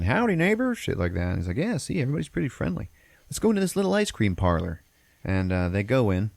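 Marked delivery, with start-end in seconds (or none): 0.0-0.7 high mock small-town greeting; friendly townsfolk. Townspeople greet the newcomers, high mock-friendly voice. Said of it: "people are saying". 1.6-4.8 high-pitched, mock-cheery dad voice; upbeat dad. Dad reassures wife about the town, high cheery voice.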